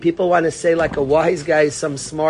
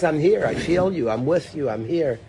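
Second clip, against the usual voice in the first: tender reassurance; 4 dB quieter than usual. Shown as a demonstration. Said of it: "The word is".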